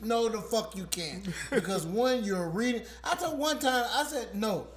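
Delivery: angry and loud; mock furious caller. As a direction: bark at the agent, pretend furious. Acted quarrel with phone agent.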